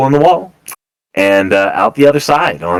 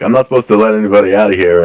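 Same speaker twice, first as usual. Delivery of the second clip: sobered, firm; faster than usual. Acted. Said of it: "he sobers up real quick".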